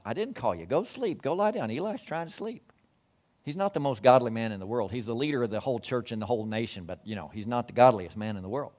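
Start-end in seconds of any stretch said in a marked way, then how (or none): 0.0-2.7 grumpy sleepy priest. Acted. Sleepy priest voiced by preacher.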